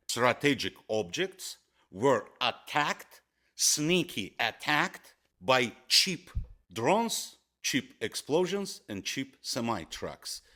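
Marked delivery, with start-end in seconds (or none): 3.5-10.4 every "cheap" leaned on, pitched up; stress on cheap. Real, not acted. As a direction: keep punching the word "cheap" each time it comes. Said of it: "emphasizing on the word".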